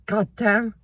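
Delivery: quick southern drawl on two words in a singer's style; southern accent. Retold or imitated. Vlogger quoting a singer's curse, southern accent. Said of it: "in the southern accent".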